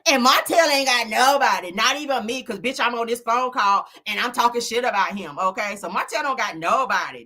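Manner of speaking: a hint of Ariana dissing Martell; Ariana's voice. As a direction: Ariana gossiping about Martell on a phone call. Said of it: "That's Ariana".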